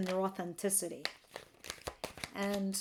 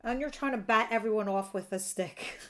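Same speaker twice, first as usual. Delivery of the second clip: breaking into a real laugh at the end; tickled, ending in laughter. Real, not acted. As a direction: let amusement spill out after the last word. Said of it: "I don't mean to laugh".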